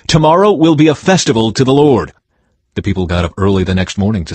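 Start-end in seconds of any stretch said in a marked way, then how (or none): 0.1-2.1 announcing. A narrator's reading. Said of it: "Then he announced".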